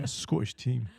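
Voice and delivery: mock Scottish accent, laughing; imitating a Scottish accent. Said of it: "You sounded a bit Scottish".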